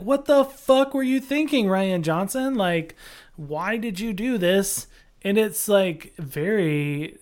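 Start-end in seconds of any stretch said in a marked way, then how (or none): 0.0-4.9 mock outrage. Fan ranting at Rian Johnson, hammed-up outrage. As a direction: yell at the director in mock disbelief.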